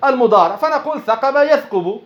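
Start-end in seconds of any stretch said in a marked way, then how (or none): 1.0-2.0 ثقب يثقب as thaqaba yathqubu; damma on the middle. Shown as a demonstration. Teacher showing the attested Arabic form, يثقب with a u. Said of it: "هذه اشتهرت بالضم".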